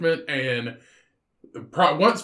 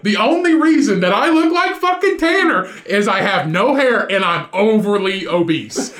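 mock indignation; 3 dB louder than usual. Mock outrage in retold story.

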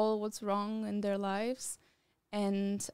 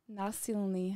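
groping for the English word; searching for a word mid-sentence; translating in head. Real, not acted. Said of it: "How do you say that in English?".

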